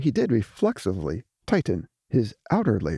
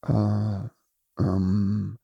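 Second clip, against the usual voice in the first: stammering; 2 semitones lower than usual. A narrator's reading. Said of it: "stammered Trezor aloud".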